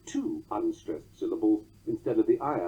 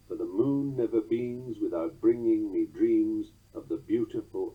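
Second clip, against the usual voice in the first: poem recitation; 3 semitones lower than usual. Acted. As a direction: recite the ballad with a swaying rhythm. Recites Poe's ballad.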